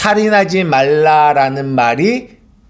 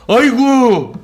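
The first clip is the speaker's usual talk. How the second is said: fast, raised mock outburst from an exasperated parent; hammed-up angry parent, higher and quick; 4 semitones higher than usual. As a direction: blurt it out like a parent at the end of their rope. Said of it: "부모가 자식에게".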